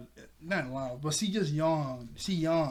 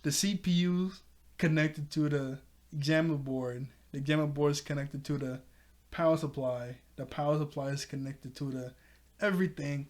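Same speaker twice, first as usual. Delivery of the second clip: reciting the rhyme. Retold or imitated. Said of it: "word for word".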